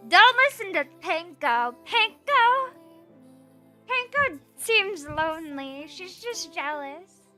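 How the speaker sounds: usual speaking voice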